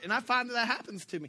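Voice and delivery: ordinary talk, nothing marked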